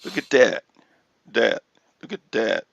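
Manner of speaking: "that" said as "dat", with a hard D. Retold or imitated. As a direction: imitate the Philly "dat". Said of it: "he says D A T instead of".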